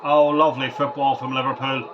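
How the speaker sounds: badly faked Scouse commentator; bad Scouse accent. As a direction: call the goal in a rough Scouse impersonation. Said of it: "That was a horrible impersonation of a Scouse accent".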